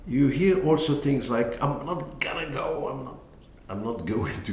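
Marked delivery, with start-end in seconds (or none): 1.6-4.5 American colloquial. Shown as a demonstration. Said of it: "in American".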